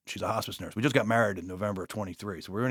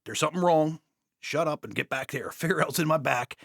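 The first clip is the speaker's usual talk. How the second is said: yelling; 4 semitones higher than usual. Retold or imitated. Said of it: "Stop yelling".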